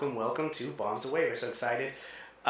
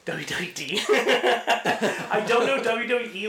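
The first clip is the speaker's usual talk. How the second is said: laughing; 7 semitones higher, 3 dB louder, slower than usual. Real, not acted. Laughs at own stumble.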